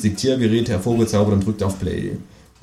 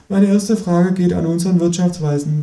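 raised presenter voice; TV host voice; 6 semitones higher than usual. Acted. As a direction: open the round like a host. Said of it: "beginnt die Moderatorin".

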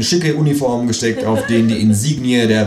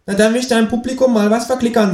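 higher, suspicious kangaroo; 4 dB louder than usual. Acted. Kangaroo confronting the narrator about the radio, higher. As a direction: confront him slyly.

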